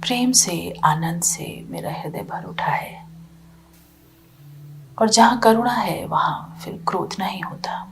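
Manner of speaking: calm, spacious phrases with long pauses; guided meditation. Real, not acted. Teacher guiding listeners from anger toward compassion, calm meditation guidance. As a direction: guide them inward, leaving silence after each phrase.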